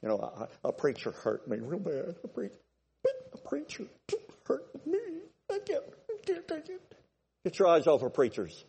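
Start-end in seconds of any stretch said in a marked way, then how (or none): 0.0-2.2 mock hurt churchgoer. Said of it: "There's all kinds of people". 2.2-6.8 very high, soft whimpering whine; hammed-up crybaby whining about a preacher; mock crybaby. Mocking a hurt crybaby.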